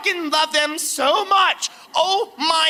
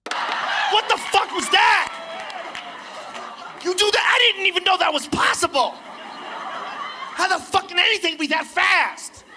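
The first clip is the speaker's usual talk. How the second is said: amazed shouting; 5 semitones higher than usual. Retold or imitated. Reliving jet flight in shock.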